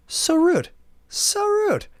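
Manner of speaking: very high, squealed mock outrage; mock indignation. Customer reacting to the curt cashier, shrill mock indignation. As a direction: squeal it in hammed-up offence.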